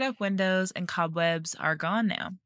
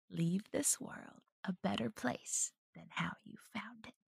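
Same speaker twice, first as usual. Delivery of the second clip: performed character voice, roughened and creaky; 12 dB quieter than usual. Performing a quote, in a put-on character voice. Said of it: "I'll do my cereal voice".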